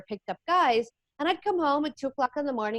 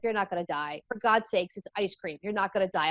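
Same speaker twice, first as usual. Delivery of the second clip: lower, understated mock-boyfriend dismissal; dismissive reassurance; 3 semitones lower than usual. Boyfriend to crying girlfriend over ice cream, dismissive. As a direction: play the unimpressed boyfriend, pitched down a touch.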